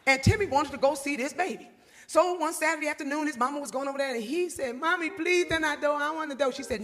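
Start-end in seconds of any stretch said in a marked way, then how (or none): 4.8-6.5 put-on begging child. Timmy begging again.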